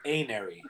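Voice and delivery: Anery with a long A, 'AY-nair-ee'; pronounced AY-nery. Shown as a demonstration. Explaining the morph name to co-hosts, Anery said as AY-nery. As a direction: open Anery on the letter name A. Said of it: "or pronounced".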